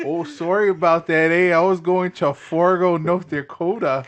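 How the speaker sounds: hammed-up Canadian accent; jokey fake Canadian voice; bad Canadian accent. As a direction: put on a clumsy Canadian lilt. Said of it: "doing a bad fucking Canadian accent".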